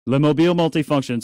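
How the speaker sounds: "les mobiles multifunction" in a hammed-up French accent; mock French accent. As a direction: put on a French accent for the term. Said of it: "pardon my French accent".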